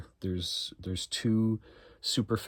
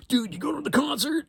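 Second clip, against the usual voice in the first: much higher, mocking dude voice; dude friend voice. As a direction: play the eager concert-going buddy. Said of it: "They're like".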